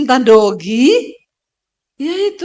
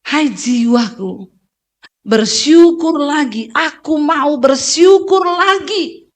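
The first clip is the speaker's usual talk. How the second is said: slow, lingering address to your own soul; a preacher slowly urging his weary soul to give thanks; slow earnest self-talk; much slower than usual. Shown as a demonstration. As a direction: coax your soul gently back to gratitude.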